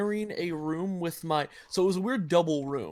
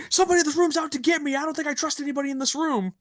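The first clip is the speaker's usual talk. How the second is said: paranoid roommate; 9 semitones higher, much faster than usual. Retold or imitated. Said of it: "threatening messages".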